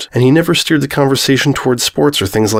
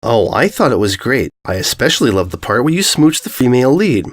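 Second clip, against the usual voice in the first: bitter sarcasm. Acted. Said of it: "Bitter sarcasm".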